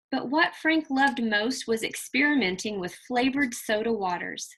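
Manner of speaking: put-on lively read-aloud storytelling for children; expressive children's story reading; story narration. A narrator's reading. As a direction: read it like a picture book to a class. Teacher reads picture book aloud.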